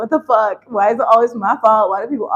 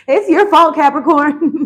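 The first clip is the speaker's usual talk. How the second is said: teasing accusation, higher and louder; mock blame; 5 semitones higher, 6 dB louder, slower than usual. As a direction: pretend to pin it all on them, playfully. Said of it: "I'm just kidding".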